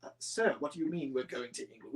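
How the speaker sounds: a lightly voiced, unsure old engine; timid Edward. Edward nervously questions the Fat Controller, softly. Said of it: "And Edward would just be like".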